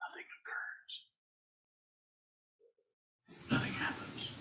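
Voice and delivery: soft, hushed, breathy, barely voiced whisper. Speaker giving a talk, also heard on Zoom, whispering to make a point: whispering. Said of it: "I'm whispering right here to kind of make a point".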